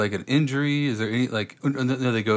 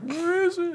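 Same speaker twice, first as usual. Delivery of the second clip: put-on very high, tearful little child voice. Picturing a poor kid missing the keyboard, imitating a crying kid. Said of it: "some poor kid is just crying".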